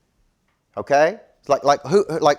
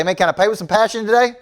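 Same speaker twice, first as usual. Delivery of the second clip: laughing mockery; 8 semitones higher, 5 dB louder than usual. Mock paying with passion.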